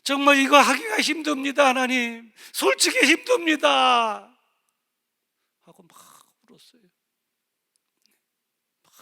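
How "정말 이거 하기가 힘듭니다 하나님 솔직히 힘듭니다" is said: loud, high, slow pleading cry; anguished cry to God. Retold or imitated. (하나님께 울부짖듯 높고 크게)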